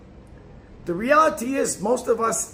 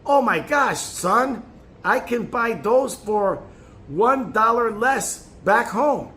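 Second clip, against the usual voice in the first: a lightly put-on Southern mom voice, slow; Southern accent; 2 semitones higher, 4 dB louder, slower than usual. Son imitating his thrifty mother's Southern accent, mildly slow. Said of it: "She said in her southern accent".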